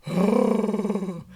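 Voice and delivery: drawn-out rough mock scream; mock manly scream. She is pushed to the floor, mock manly scream. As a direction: imitate a woman screaming in a manly voice. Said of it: "she screams with a manly voice".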